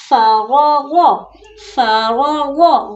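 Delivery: "फरागो" with a thick, rounded "गो"; heavy final letter. Shown as a demonstration. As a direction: make the end of "फरागो" heavy. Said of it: "गौद को मोटा पढ़ना है".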